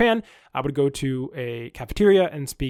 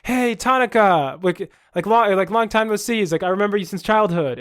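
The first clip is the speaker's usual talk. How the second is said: mock reunion greeting; 5 semitones higher, 4 dB louder than usual. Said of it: "I turn to him and go".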